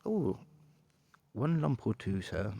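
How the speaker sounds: posh English butler query; Grim. Pretend. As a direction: offer sugar as a posh English servant. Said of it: "particularly posh English".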